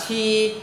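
"chi" with a puff of air, held high and level; aspirated sound. Shown as a demonstration. Teacher introduces the hard-to-read letter, aspirated sound. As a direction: push air through the teeth on "chi". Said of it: "Phải có hơi bật ra".

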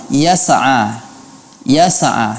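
yas'a with a small bounce after the ain; imitating the error, echoing ain; qalqalah on ain. Shown as a demonstration. Teacher imitates the student's qalqalah. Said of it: "saya mendengar adanya qalqalah".

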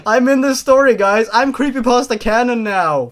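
loud, high, thrilled boast; excited bragging. Real, not acted. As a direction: gloat like a fan made canon. Reader thrilled to be in story.

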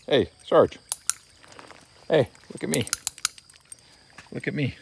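high, lifted call to the dog. Real, not acted. Trainer to dog Sarge, high calling voice. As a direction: pitch it up to pull his focus.

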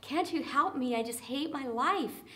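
begging leper. Retold or imitated. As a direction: plead on your knees, desperate. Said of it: "Have any of us felt like we need to beg?".

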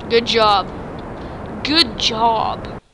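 cheering on. Real, not acted. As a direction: cheer him on like a coach. Praising pilot.

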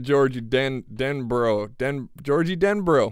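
"Denbro" broken off and restarted, slowly; stumbling over name. Real, not acted. Player struggling to read out a place name, stumbling on "Denbro". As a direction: trip on "Georgie Denbro", restarting at "Den-". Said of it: "Why is that hard to say".

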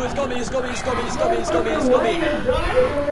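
rising laughing cry, grabbed; laughing panic. Real, not acted.

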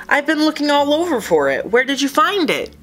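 high, quick excited asking; eager questions. Acted. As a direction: rush out the questions. Fish finding his lost glass.

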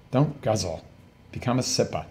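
imitated South African nurse's advice; South African accent. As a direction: quote her in a light South African accent. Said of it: "Love the accent".

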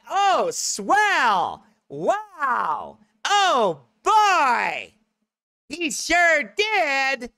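hammed-up sweetness, mocking how they want him to talk; mock sweet preacher. Shown as a demonstration. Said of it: "I don't talk like that, do I?".

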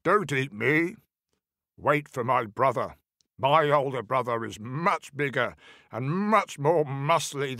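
pleading goat voice; lightly voiced storybook goat; middle billy goat. A narrator's reading. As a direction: bargain for your life as a bleating goat. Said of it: "said the middle billy goat".

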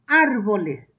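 "Árboles" with the first A stressed. Shown as a demonstration. Teacher showing pupils the accent, "Árboles" stressed on A. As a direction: lean on the opening A of "Árboles". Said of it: "Árboles lleva acento en la A".

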